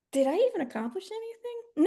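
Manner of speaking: mock dismay. Student realizing at night, mock dismayed. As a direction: imitate the late-night panic. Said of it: "you're gonna realize".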